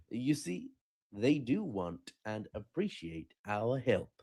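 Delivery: slow, measured, patronising voice; drawn-out superpower tone; America voice. Retold or imitated. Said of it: "America was like".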